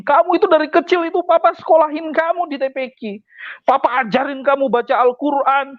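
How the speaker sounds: mild mock scolding from papa; scolding father. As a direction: lightly voice papa's reproach. Father scolding son in retold story.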